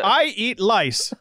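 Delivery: slow mimicry with "lice" for rice; slow, teasing "lice" with L for R; childish mock accent. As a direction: draw out "lice", L swapped for R, mocking him. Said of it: "that's his version of it".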